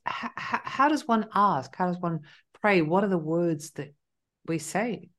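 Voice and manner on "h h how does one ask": stuttering. Real, not acted. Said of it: "I'm stuttering".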